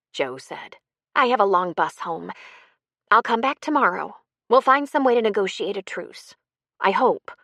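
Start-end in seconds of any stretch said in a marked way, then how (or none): 1.1-7.3 lightly voiced higher, louder character; lightly raised voice, offering to make peace; higher-pitched dialogue voice, lightly acted; Jo, earnest. Novel dialogue, Jo speaking.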